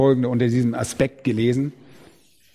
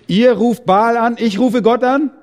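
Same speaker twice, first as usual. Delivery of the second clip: Elijah's challenge; 7 semitones higher, 4 dB louder than usual. Acted. Elijah challenging Baal's priests.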